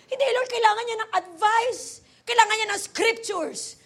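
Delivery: high, insistent pleading; mock-earnest objection to God; retold protest.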